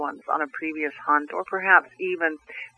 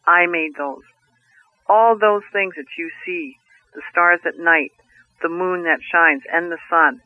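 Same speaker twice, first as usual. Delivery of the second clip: 1 voice of the Creator. Acted. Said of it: "And this voice said".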